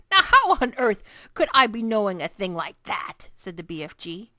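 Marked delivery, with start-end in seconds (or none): 0.1-3.3 BFG giant voice. A narrator's reading. BFG voice held.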